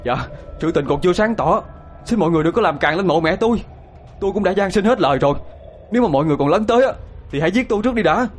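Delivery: beg, then dare them to kill you first; desperate plea. A narrator's reading. Son begs crowd to spare his mother's grave, rising desperate plea.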